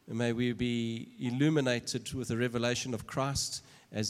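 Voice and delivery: heartfelt congregational prayer; spoken prayer. Acted. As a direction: pray over him with rising then quieting devotion. Pastor prays over the speaker.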